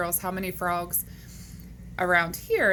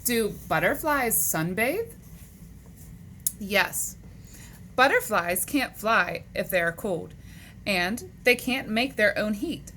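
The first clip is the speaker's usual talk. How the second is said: animated, measured picture-book reading; read-aloud to children; 3 semitones higher, slower than usual. Acted. Teacher reading animal facts to boys and girls, animated read-aloud. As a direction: read it out to young kids, lifting the questions.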